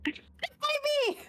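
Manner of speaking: very high mock jeer; cheeky high-pitched cry; playful taunt. Player keeps taunting the guard.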